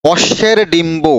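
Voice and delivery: slowly, word by word, so students can write অশ্বের ডিম্ব; teacher spelling out an example slowly; slow dictation. Shown as a demonstration. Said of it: "যেমন একটা শব্দ বলি".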